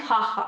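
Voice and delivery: हा हा with a breathy h, the way Spanish reads j. Shown as a demonstration. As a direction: say हा हा with an airy h sound. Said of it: "इसको वो लोग पढ़ते हैं". (स्पेनिश ज को ह की तरह, हा हा)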